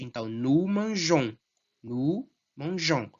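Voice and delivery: mangeons with a nasal final on; French nous form demo. Shown as a demonstration. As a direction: stress the sounded on ending of mangeons. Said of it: "o on é forte".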